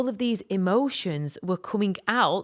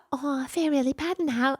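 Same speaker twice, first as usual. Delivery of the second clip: guilty neighbour; 7 semitones higher than usual. Retold or imitated. Stranger apologising, quoted.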